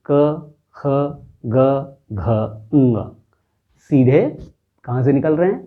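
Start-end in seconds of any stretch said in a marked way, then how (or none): 0.1-3.1 क, ख, ग, घ, ङ said one by one from the throat; teacher sounding out the Hindi velar letters; demo of throat consonants. Shown as a demonstration. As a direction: sound out क ख ग घ ङ slowly, each from the back of the throat. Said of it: "आप उच्चारण स्वयं कीजिए".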